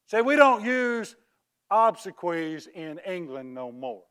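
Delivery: badly faked English accent. Fraud explains his wrong word to mourners in a bad English accent. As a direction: pose as an Englishman with a poor accent. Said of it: "That is the worst English accent".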